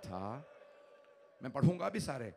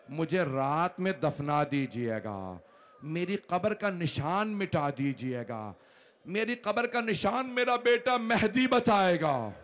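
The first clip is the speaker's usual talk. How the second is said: rising lament; 5 dB louder than usual. Acted. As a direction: let the grief swell line by line to a wail. Sayyida's last will, recited in lament. (वसीयत पढ़ते हुए मातम, धीरे धीरे ऊँची होती पुकार)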